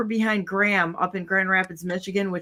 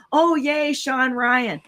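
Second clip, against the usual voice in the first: higher-pitched mock fan excitement; mock cheering; 5 semitones higher, much slower than usual. Voicing everyone out there hailing Sean Ryan, mock cheering. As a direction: imitate gushing fans, sarcastically.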